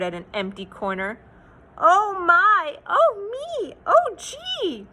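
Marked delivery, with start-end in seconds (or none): 1.8-4.9 put-on a little kid panicking at Pop; Junior crying out. Junior cries to Pop about the missing tree, high and alarmed. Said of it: "cried Junior".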